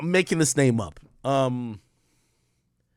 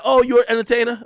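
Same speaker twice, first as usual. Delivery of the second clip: mock condescending; 10 semitones higher, 10 dB louder than usual. Mocking neighbor's reaction.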